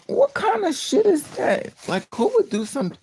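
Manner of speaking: high, loud outraged squawk; shocked disbelief. Retold or imitated. Friend reacting to a man's sick story, shocked disbelief. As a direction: recoil loudly in exaggerated disbelief.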